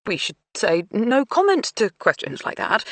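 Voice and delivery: timid hesitant suggestion; unsure, voice thin and high; weakly. Acted. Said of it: "Duncan suggested weakly".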